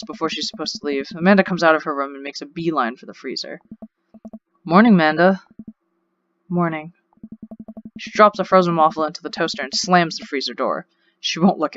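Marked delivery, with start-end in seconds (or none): 4.6-5.4 bright, rising hello; cheerful greeting. Acted. Dad to his daughter at breakfast, cheerful greeting. 6.5-6.9 curt and a bit softer; sullen reply. Acted. Teen daughter to her dad at breakfast, sullen and curt.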